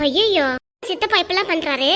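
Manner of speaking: dismayed and worried; alarmed dismay. Acted. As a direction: react with shock to bad family news. Child hears upsetting news about uncle.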